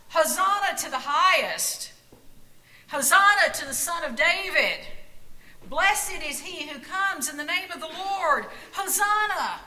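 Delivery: loud, high cries of praise; crowd shouting. A narrator's reading. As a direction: lift it up like a cheering crowd. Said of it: "surrounded by people shouting".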